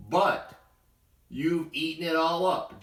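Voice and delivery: high, loud protest; cried out. Acted. Animals crying out at Dexter that it is gone. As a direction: wail it in dismay. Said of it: "the elephant cried".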